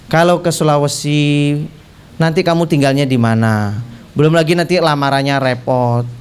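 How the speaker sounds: lightly voiced parent talking a child out of it; weary listing of worries, lightly acted; reluctant parent. Voicing parents' objections to distant bride.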